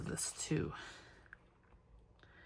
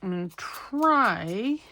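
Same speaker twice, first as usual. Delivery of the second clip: a slow, stressed try. Real, not acted. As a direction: try leaned on and slowed. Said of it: "and I stress the word try".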